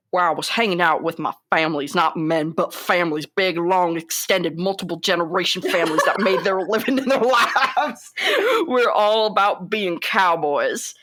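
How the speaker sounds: lightly voiced Texan cowboy rant; Sam Elliott. Co-host reading the actor's quote, light cowboy impression. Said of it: "let me do my Sam Elliott impression".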